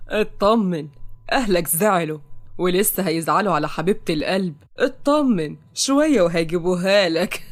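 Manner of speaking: sly mocking. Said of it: "وهو بيضحك بخبث".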